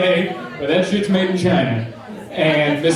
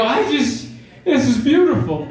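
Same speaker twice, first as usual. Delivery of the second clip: high-pitched, barely getting it out; overcome with amusement; 8 semitones higher than usual. Retold or imitated. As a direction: imitate being too amused to speak. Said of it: "That's all I could get out".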